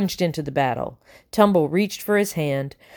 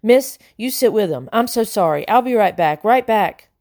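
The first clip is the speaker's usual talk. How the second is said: babbling; 4 semitones higher than usual. Acted. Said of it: "he babbled".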